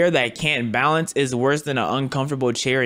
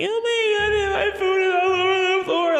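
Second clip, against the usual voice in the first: mock very high, very slow kid crying, my stretched. Imitating a kid whose food fell on the floor: imitating a crying kid. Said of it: "he gonna cry at you".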